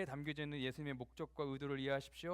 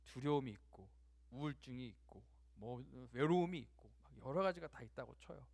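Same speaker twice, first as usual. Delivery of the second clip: normal talking voice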